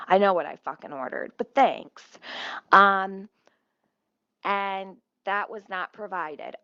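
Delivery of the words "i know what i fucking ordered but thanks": fast, louder snap of sarcasm; sarcastic aside to the camera; sarcastic retort. Real, not acted. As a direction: bite back at the report. Mocking the police report.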